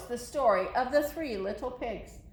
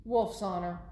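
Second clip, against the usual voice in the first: put-on lively read-aloud for kids; story narration. A narrator's reading. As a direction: tell it to the kids as the wolf. Reading the Wolf's story to children.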